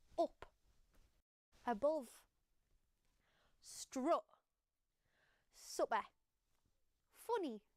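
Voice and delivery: Geordie accent, said word by word. Demonstrating an accent feature by saying example words, in a Geordie accent. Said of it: "this is my Geordie accent".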